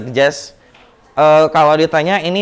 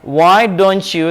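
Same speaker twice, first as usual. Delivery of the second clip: slow model phrase; 4 semitones higher, much slower than usual. Shown as a demonstration.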